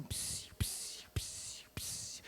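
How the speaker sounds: soft unvoiced psst to catch her attention; hissed psst. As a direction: whisper the psst like a tempter. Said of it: "o Dom Juan miserável do inferno, faz assim".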